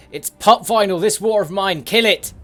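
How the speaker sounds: high, loud gushing; thrilled, almost shouting praise; excited cheer. Real, not acted. Excited about art style.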